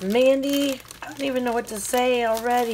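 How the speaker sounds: high, loud call of her name; excited call. Real, not acted. Calling out to gift sender.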